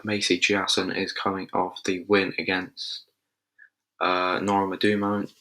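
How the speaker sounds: half-Scottish without meaning to; slipped into Scottish. Real, not acted. Previewing a fight, drifting into a Scottish accent.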